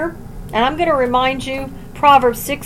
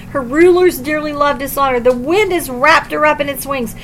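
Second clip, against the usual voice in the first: raised, declaiming scripture reading. Acted. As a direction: proclaim the verses to the congregation.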